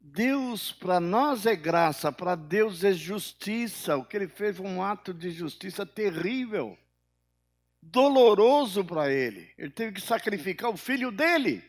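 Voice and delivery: loud, high, emphatic sermon delivery; forceful preaching. Real, not acted. Preacher on God's costly justice, impassioned preaching. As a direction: drive each point home from the pulpit.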